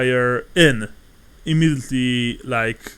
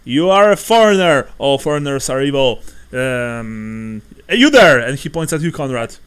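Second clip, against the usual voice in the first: accusing innkeeper; 4 dB louder than usual. Acted. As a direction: spit out the accusation at the foreigner. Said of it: "says the innkeeper".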